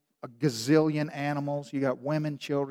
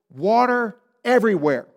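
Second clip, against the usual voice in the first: usual speaking voice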